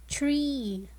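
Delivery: \"tree\" whispered with a long E; whispered model word. Shown as a demonstration. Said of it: "the word tree has the long E sound".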